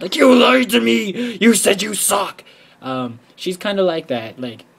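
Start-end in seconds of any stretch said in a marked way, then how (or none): 0.2-2.4 louder, slow mock accusation; mock mad. Beaten player yelling at a modest opponent, slow mock anger. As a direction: accuse them in mock outrage. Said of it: "you get all mad".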